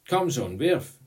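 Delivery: loud, high call from first base; urging shout. A narrator's reading. Boy on first base to the pitcher, urging shout. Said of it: "rief der Junge am ersten Base".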